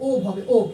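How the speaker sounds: ওব, clearly spelled out; ওব said slowly. Shown as a demonstration. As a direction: pronounce হ্ব as ওব. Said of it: "এর উচ্চারণটা কি হবে".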